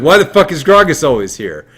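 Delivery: pissed off. Acted. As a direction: complain loudly like an annoyed player. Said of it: "and then you get pissed".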